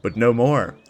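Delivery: epic trailer-style storytelling voice; dramatic lore narration. Acted. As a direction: read it like the opening of a fantasy saga. Reads the lore intro aloud.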